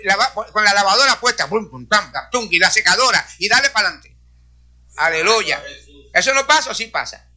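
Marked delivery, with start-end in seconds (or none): 1.5-2.5 spoken washing-machine thuds; rhythmic mock appliance noise; imitated washer thumps.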